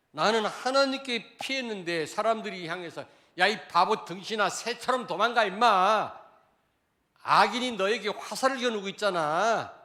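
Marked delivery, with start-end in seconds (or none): 3.4-9.7 loud, higher jeering at a fool; mocking shout. Pastor voicing mockers yelling at David, loud jeer. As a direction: yell it like a scornful mob. Acted crowd taunting the psalmist.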